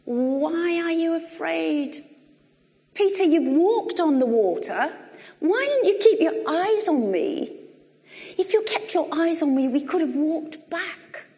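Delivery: Jesus. Acted. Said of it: "And Jesus says".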